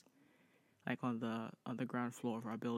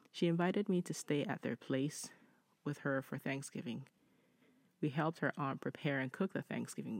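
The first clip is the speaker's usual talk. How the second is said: measured read-aloud voice, lifting the start of each sentence; deliberate, well-paced reading of a written story. Acted. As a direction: read the letter out clearly, phrase by phrase. Reads listener's story.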